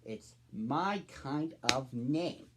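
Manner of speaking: confused. Acted. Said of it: "a little confused".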